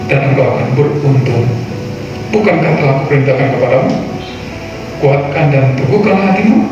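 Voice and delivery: solemn Bible reading over music; scripture reading. Acted. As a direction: read scripture with weight. Reads scripture aloud. (pembacaan Alkitab yang khidmat)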